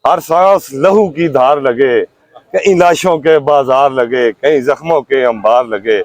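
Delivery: measured, declaimed Urdu verse with falling line ends; rhythmic protest poetry; poem recitation. Acted. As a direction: recite it line by line, pausing after each.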